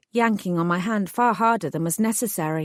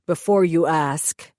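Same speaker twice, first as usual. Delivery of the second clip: lower, steady man's voice, a touch sullen; hired thug voice; 3 semitones lower, 3 dB louder than usual. Acted. Thug explains his orders to the heroine, sullen lowered voice. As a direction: play the sulky hired heavy explaining himself.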